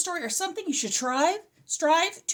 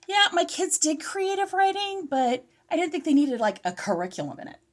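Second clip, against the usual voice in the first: slightly out of breath, asthmatic; 6 semitones higher than usual. Real, not acted. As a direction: talk while short of breath. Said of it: "I don't know why I'm so out of breath".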